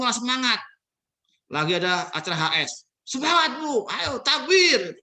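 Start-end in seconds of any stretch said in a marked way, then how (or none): 3.1-5.0 high, loud rally cry, slowly; hyped cheer. Retold or imitated. Speaker acting an event host rallying the crowd, loud hyped cheer. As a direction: whip up the crowd.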